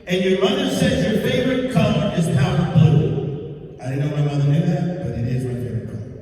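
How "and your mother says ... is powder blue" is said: imitating the kind lady. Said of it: "she says".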